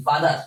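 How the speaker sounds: "ফাদার" with the final R sounded; everyday "ফাদার", R kept; R pronounced. Shown as a demonstration. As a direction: finish "ফাদার" on a clear R. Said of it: "কিন্তু রর উচ্চারণ সচরাচর করি".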